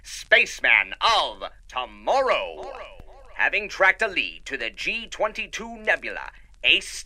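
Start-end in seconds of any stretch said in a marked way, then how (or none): 0.0-2.7 put-on grand old-radio welcome to the cadets; radio serial narrator. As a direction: sell the adventure like a serial host.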